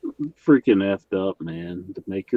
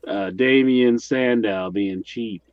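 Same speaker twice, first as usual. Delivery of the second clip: worked-up rant, pitch climbing high; getting loud; 3 semitones higher, 5 dB louder than usual. Real, not acted. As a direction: get riled up defending him, voice rising. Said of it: "I'm getting loud".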